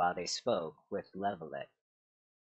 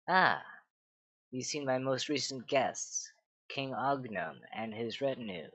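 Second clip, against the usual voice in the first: breezy; 3 semitones higher than usual. Acted. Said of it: "said Padma breezily".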